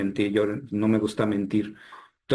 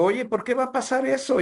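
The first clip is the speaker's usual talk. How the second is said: retold terror; 11 semitones higher than usual. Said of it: "me empecé a aterrar".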